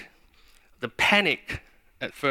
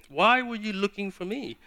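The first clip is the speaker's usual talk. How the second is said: a rebuke pitched higher; pitched-up scolding question; a son rebuking his parents, higher; 6 semitones higher than usual. Shown as a demonstration. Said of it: "That's a rebuke".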